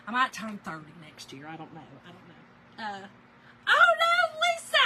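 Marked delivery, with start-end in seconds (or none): 3.7-4.8 surprised. Real, not acted. Spotting a viewer's comment.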